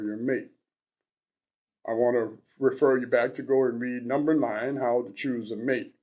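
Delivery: lightly voiced advice-columnist character, measured reading; Love Doctor. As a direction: read it out with a hint of character, pausing between points. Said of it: "read it in that character voice".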